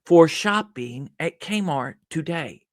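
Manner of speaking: slow, robotic cashier line; listless. Retold or imitated. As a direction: recite it like a programmed machine. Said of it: "This robotic, programmed response".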